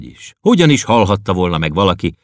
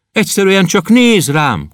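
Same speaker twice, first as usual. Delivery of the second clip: plaintive plea; 12 semitones higher, 4 dB louder than usual. Acted. Poet pleads to Klopédia.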